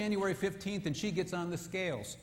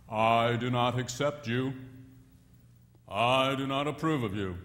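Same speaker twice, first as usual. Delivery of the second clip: mock stern husband message; 5 semitones lower than usual. Diet book's message from husband to wife, lower and stern. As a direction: intone it like a harsh verdict.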